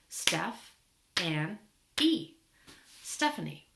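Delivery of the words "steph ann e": broken into syllables. Shown as a demonstration. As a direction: clap out STEPH... ANN... E with pauses between. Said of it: "We can clap it out".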